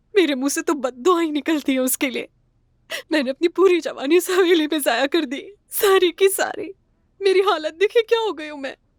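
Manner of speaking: high, tearful speech through sobs. A character laments being put out of the house, crying while talking. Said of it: "रो मत।".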